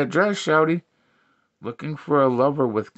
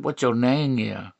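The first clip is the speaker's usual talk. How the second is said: lower, understated version; low repeated question; 3 semitones lower than usual. Acted. Comic repeats the woman's question, pitched low.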